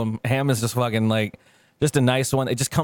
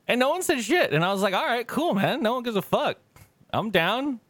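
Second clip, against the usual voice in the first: raised, breezy mock-relieved tone; relieved and amused; 10 semitones higher than usual. Family ignoring painted nails, high breezy relief. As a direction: act like nothing bothers you.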